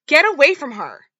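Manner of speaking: high, loud protective shout; angry shout. Retold or imitated. Mother shouts at boyfriend to leave her daughter alone, loud shout. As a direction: yell him off her.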